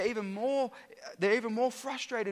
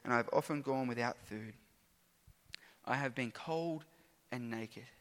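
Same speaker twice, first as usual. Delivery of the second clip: scripture reading. Acted. Preacher reading Paul's sufferings to the congregation, earnest. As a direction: recite the hardships, heavy and earnest, fading at the end.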